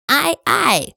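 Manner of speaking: high, beaten reply; defeated. A narrator's reading. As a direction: answer like a scolded sailor. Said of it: "entgegneten sie geschlagen".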